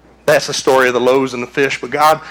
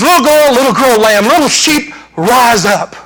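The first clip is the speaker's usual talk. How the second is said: gentle command; 8 semitones higher, 5 dB louder than usual. Retold or imitated. Jesus raising the dead girl.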